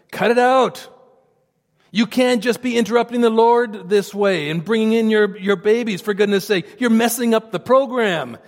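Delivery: harsh rebuke. Retold or imitated. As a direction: tell them off like an annoyed guard. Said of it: "It's a very strong word".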